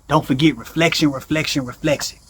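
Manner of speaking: a dwindling repeated reminder; fading echo. Acted. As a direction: let the word fade away like an echo.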